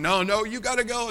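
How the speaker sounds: imitating a leader who won't relent; mock insistence. Brother Johnny insisting he go in.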